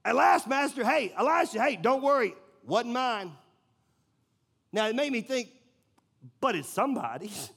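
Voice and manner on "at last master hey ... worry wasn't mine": mock careless worker. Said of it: "his thought is".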